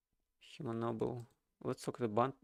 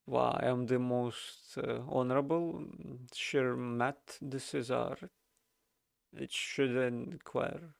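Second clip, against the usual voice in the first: slow pompous noble; slower than usual. Acted. NPC noble introduces himself.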